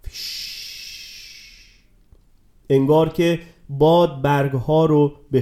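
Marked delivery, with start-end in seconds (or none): 0.1-0.5 soft rustle sound. A narrator's reading. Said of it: "صدایی شنید".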